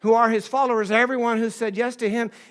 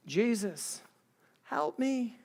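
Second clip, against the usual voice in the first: soft plea, rising on the request; sincere cry; 7 dB quieter, much slower than usual. Acted. Preacher demonstrating his three-word prayer, soft sincere plea. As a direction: pray it softly, like a small cry for help. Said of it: "just a sincere cry".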